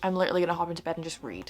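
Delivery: talking around a retainer; words slightly lisped by retainer; wearing a retainer. Real, not acted. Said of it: "I have my retainer in".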